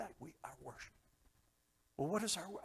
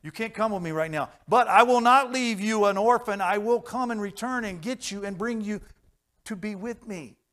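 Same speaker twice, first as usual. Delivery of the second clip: voice of Jesus; 6 semitones higher, 9 dB louder than usual. Retold or imitated. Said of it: "He said".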